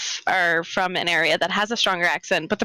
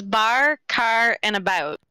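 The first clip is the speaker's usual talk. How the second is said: bar, car and about in a Canadian accent with raised vowels; slower than usual. Shown as a demonstration. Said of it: "All you need to say is".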